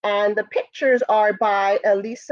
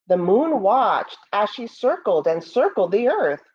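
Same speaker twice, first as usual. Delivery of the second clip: storybook narration. Acted. Teacher reading Moon's First Friends to students, storybook voice. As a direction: read it like a bedtime story for the class. Reads picture book aloud.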